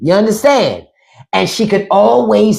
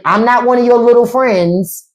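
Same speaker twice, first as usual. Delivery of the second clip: stern parent line; 3 semitones higher than usual. Retold or imitated. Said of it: "we've all heard it".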